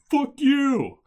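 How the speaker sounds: high, loud furious shout; angry yell. Retold or imitated. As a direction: scream it at the clown. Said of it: "everybody ... is just like".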